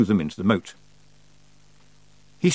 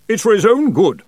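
very high, loud retort; peevish aunt; 11 semitones higher, 8 dB louder than usual. Acted. Aunt defends herself to Roland through the door, high peevish retort. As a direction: insist loudly in a high aunt voice.

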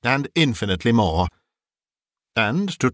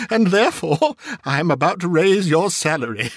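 high-pitched, giddy burst of delight; joyful, excited reveal after a laugh; gleeful announcement; 6 semitones higher than usual. A narrator's reading. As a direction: announce it bubbling over with glee, pitched up. Scrooge drops the act, gleefully announces raise.

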